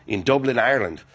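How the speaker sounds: a hammed-up, half-hearted Irish accent on the place name; bad Irish accent. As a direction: toss off Dublin in a cheesy mock Irish accent. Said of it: "That was a terrible Irish accent".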